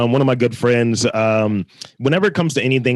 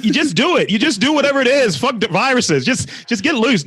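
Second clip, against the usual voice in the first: hammed-up tempter; 9 semitones higher than usual. Goat devil's advice, egging on.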